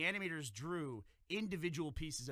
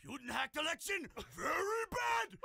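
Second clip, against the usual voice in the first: put-on Asian accent; 12 semitones higher than usual. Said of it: "my racist Asian voice".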